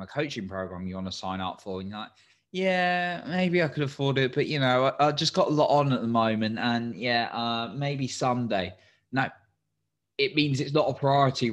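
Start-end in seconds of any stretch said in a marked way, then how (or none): 2.5-8.7 reluctant excuse. Retold or imitated. Imagined excuse of a hesitant listener.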